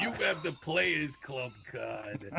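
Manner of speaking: slow, drawn-out pitchman purr; lightly voiced Telly Savalas ad read; Telly Savalas impression. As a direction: sell it like a smug TV spokesman. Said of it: "doing my Telly Savalas voice".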